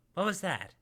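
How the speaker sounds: sudden alarmed question; startled, as if hearing a noise. Shown as a demonstration. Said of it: "let me say it again".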